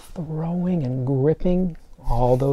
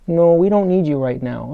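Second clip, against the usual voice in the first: lightly voiced bossy fingers; 4 semitones higher, 7 dB louder than usual. Fingers voiced answering the left-out one.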